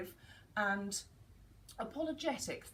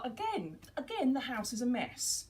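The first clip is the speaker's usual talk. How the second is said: critical parent; 3 semitones higher, 4 dB louder than usual. Retold or imitated. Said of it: "critical parent".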